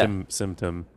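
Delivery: symptom said as "thimptom"; lisping the s in symptom. Pretend. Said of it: "imagine having a doctor that had a lisp".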